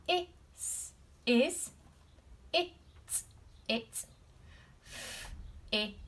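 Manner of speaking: Is, it, f, ish said piece by piece; sounding out. Shown as a demonstration. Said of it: "We start with a capital letter".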